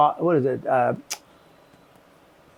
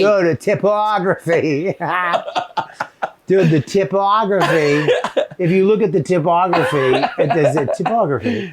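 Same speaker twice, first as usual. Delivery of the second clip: laughing; 2 semitones higher than usual. Pretend. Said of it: "It has to come out British".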